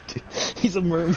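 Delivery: laughing through the words. Real, not acted. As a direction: chuckle out the line. Laughing at the merman reveal.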